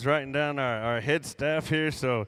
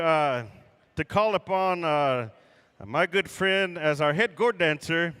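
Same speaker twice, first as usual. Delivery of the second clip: powwow emcee. Real, not acted. Emcee introduces head gourd dancer.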